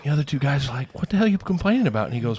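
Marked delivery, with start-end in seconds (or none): 0.9-2.0 exasperated outburst. Acted. Other two guys exasperated.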